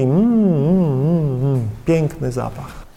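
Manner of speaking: slow, relishing hums; drawn-out appreciative mmm as if sniffing something lovely; savouring a smell. Acted. God enjoying the aroma of faithful Christians, slow relishing hums.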